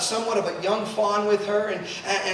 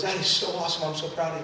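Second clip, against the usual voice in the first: low, soft fatherly praise; tender pride; 5 semitones lower, 7 dB quieter, much faster than usual. Retold or imitated. Dad tells daughter he is proud of her, tenderly. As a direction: say it quietly, voice dropped low.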